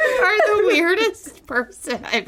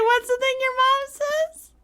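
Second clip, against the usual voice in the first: high voice breaking with laughter; squeezing the words out through laughter; laughing; 10 semitones higher than usual. Real, not acted. Retelling the joke, laughing.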